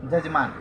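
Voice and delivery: जजमान with j in place of y; regional pronunciation. Shown as a demonstration. Teacher giving an example of the eastern habit. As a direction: say जजमान, opening on a j sound. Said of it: "य के बदले ज बोलते हैं".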